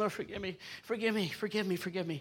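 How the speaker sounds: acted muttering under breath. Speaker retelling holding back when someone's in their face, acting out muttering under breath. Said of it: "like even under my breath".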